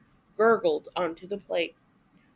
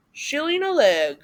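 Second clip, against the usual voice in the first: brief gypsy; 4 semitones higher, 4 dB louder than usual. A narrator's reading. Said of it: "he said briefly".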